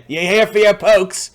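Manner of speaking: simple-minded guard asking; gruff guard. Acted. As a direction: play a dim guard. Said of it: "That's not how you say the word".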